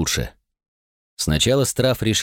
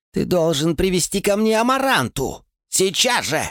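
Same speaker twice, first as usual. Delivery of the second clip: much higher, forced royal command; 10 semitones higher than usual. Acted. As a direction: summon every scrap of authority. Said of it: "Страф собрал всю властность".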